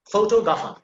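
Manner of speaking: Photographer with "TO" punched, R dropped; stress on second syllable. Shown as a demonstration. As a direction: hit the "to" in Photographer. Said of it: "put emphasis on the second syllable".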